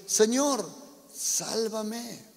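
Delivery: high, loud cry for help while sinking; desperate cry. A narrator's reading. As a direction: call out to the Lord in panic. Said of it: "dio voces diciendo". (grito desesperado, agudo y fuerte)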